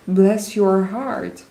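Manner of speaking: slow, drawn-out Southern bless your heart; southern US phrase. Retold or imitated. Viewer quoting a Southern saying, in a slow, light Southern US accent. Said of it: "southern U S when, uh, they say".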